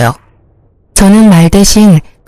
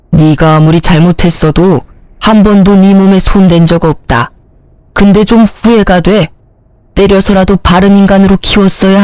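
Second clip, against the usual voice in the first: lower, heavy rebuke; a disappointed father scolding his son; stern father; 3 semitones lower than usual. Acted. (아들을 꾸짖는 실망한 아버지)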